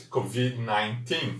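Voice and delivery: slow covid nineteen, silent final d; careful covid nineteen; English covid nineteen. Shown as a demonstration. Teacher modelling covid nineteen slowly. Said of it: "D mudo em inglês".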